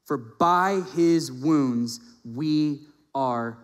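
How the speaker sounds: slow, emphatic verse with drawn-out words; solemn scripture reading. Acted. Preacher reads First Peter to congregation, slow and emphatic. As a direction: recite it deliberately, stretching each key phrase.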